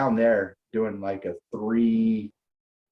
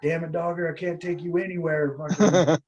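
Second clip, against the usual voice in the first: exasperated scolding; 7 semitones higher than usual. Retold or imitated. Chris scolding his troublemaking friend.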